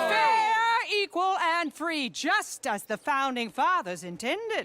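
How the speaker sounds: rally oratory. Acted. Speaker answers the heckler at the rally.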